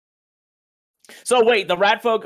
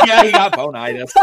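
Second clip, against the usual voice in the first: laughing; 9 semitones higher, 8 dB louder than usual. Real, not acted. Laughing at friend's joke.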